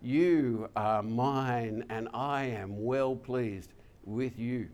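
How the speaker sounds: slow, gentle voice of God; voice from heaven. Acted. Preacher gently voicing God to the congregation, slow. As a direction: speak God's blessing slowly, tenderly. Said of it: "hear the voice from heaven that says".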